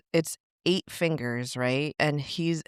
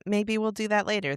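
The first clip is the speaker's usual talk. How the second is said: mocking the staff; 7 semitones higher than usual. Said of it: "And not even, like, a".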